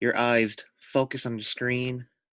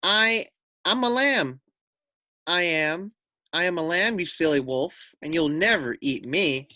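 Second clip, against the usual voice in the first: higher, lightly raised lamb call; a lamb taunting from the cliff top, lightly raised; mild shout; 4 semitones higher than usual. Acted. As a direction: call down the cliff, mildly triumphant.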